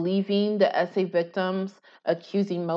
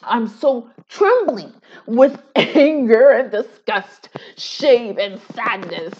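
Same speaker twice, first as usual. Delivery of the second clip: laughing mock trembling; 2 semitones higher, 5 dB louder, slower than usual. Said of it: "I'm laughing because I can relate".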